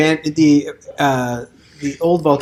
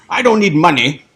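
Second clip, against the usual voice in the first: Doctor Smith voice; 4 semitones higher, 5 dB louder than usual. Acted.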